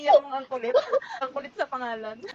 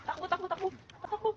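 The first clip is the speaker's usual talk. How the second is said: hoarse jeepney route shouts; 10 semitones higher than usual. Real, not acted. Frantic escape, urging friends to run.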